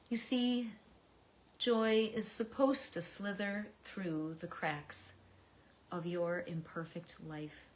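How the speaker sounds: expressive poetry reading with dips to a hush; heartfelt poem read aloud to listeners. Acted.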